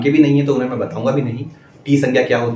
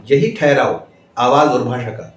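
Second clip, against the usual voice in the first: slow with pauses; slower than usual. Shown as a demonstration. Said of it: "जैसा कि मैं अभी इस समय बोल रहा हूँ".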